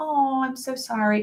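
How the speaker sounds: slow, soothing, sympathetic funeral-director-style voice. Funeral director shows how their voice changes with people: a little softer. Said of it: "I might get a little softer".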